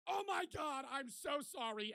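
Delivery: embarrassed rush of apology; mortified apology. Retold or imitated. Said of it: "And I go".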